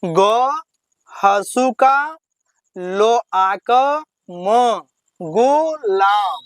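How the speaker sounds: each syllable spelled out slowly with pauses; teacher spelling letter by letter. Shown as a demonstration. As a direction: sound out every piece apart, very slowly. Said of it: "तो इसको कैसे पढ़ेंगे?".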